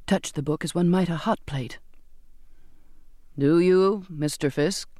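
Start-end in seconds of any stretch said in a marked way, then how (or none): 3.4-4.9 solemn, measured intoning; intoned oath. A narrator's reading. Captain swearing in a crewman, solemnly intoned. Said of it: "the captain intoned".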